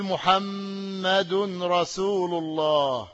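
محمد رسول الله said very slowly with each word held; slow example phrase. Shown as a demonstration. Teacher showing tanween on an example, very slow. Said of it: "يعني أقول".

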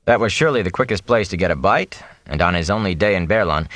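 ordinary delivery

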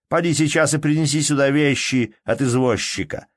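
irritated master giving orders; stern order. A narrator's reading. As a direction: order the servant about sharply.

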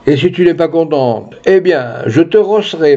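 lifted, punchy menace, lightly acted; threatening candidate. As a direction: threaten a beating with theatrical relish. Candidate threatening to beat France.

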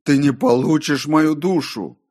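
loud, high cry of defiance; defiant shout. A narrator's reading. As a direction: hurl the refusal at the tempter. Defiance repeated louder to the voice.

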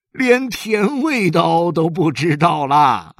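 high, loud, slow laughing words; amused father mocking his kids; laughing tease. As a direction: stretch it out through laughter.

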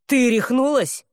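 mock her like she's lost her mind; incredulous scoff. A narrator's reading.

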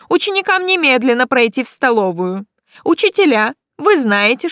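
loud, high, tense announcement over the school; urgent nervous headmaster on the loudspeaker; nervous rector announcement. A narrator's reading. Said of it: "нервный голос ректора".

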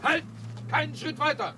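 laut und hoch rufen: Halt!; scharfer Anruf. Acted. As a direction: stoppe den Fremden mit scharfem Befehl. Ruft Unbekannten im Dunkeln an. (Inspektor ruft Unbekannten im Dunkeln scharf an)

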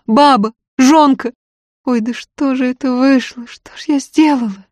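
high, loud tearful lament; сквозь рыдания. Acted. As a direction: wail it out, sobbing between phrases. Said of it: "приходилось сделать глубокий вздох". (сквозь рыдания, высоко и громко)

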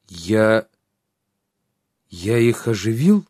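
in horror. A narrator's reading. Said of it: "в ужасе спросил Трикс".

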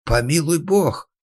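high, slow frightened cry; terrified cry. A narrator's reading. Terrified carpenter crying out to God. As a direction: gasp it out in fear. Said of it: "Мастер был еле жив от страха".

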